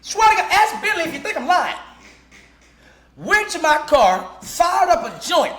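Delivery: high, loud, laughing through it; high and loud through laughter. Real, not acted. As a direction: crack up telling it. Laughing while retelling.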